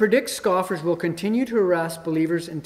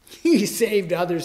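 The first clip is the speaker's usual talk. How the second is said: scoffing; 2 semitones higher, 5 dB louder than usual. Retold or imitated. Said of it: "they scoffed".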